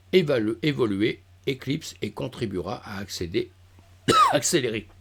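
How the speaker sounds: throat catching, cough; clearing a frog in the throat. Real, not acted. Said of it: "j'ai un truc dans la gorge".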